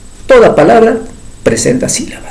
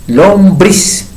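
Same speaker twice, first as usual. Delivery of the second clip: Lombriz said deliberately with a slight lift; emphatic demo; 3 semitones higher than usual. Shown as a demonstration. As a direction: repeat Lombriz for the class to analyse. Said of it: "¿Cuál sería la consonante?". (Lombriz repetida con énfasis para analizarla)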